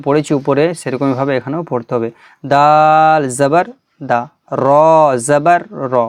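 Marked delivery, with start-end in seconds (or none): 2.5-5.9 letter name held long and level, last syllable short; slow, measured spelling chant; Quran primer recitation. Shown as a demonstration. Teacher models Arabic letters for students, drawn-out recitation.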